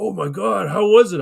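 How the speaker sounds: imitating an eager brother, high and rising loud; mock excited curiosity. Brother asking how the acid was, excited.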